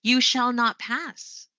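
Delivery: slow, weighty command, dropping on "pass"; each word spaced out, "pass" falling; falling command intonation. Shown as a demonstration. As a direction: order it slowly, ending down on "pass". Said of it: "how about when you're issuing a command".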